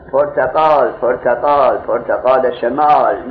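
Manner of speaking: lightly voiced vendor crying his fruit; a hint of a hawker calling out oranges; mild street vendor call. Teacher imitating a street seller calling oranges.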